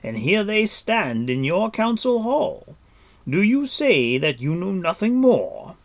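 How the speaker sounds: ringing accusation thrown across the hall; indignant cry. A narrator's reading. Captive lord challenging the queen in her council hall, crying out. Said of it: "cried Gwydion".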